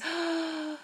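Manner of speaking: sharp awed gasp. Pretend. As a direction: gasp like a moved audience. Audience reacts to movie ending.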